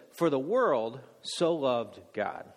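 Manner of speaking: slow it right down to show the flipped order; deliberate slow demo line; slow flipped version. Shown as a demonstration. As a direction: spell out "For the world so loved God" slowly, word by word. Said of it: "What if we said instead".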